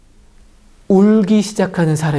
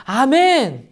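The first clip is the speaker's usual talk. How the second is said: eager high amen; believers answering; 8 semitones higher, slower than usual. Acted. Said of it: "라고 사람들이 고백하며".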